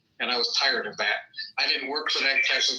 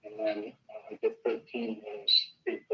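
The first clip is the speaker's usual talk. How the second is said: muddy voice; 4 dB quieter than usual. Real, not acted. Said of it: "like you're far away from the microphone".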